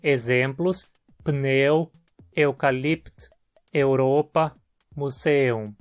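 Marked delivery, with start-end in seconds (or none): 1.2-5.7 each eu said as a clear e-u; trema eu. Shown as a demonstration. Teacher lists trema eu words, each clear. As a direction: model the eu sound word by word. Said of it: "a pronúncia fica eu".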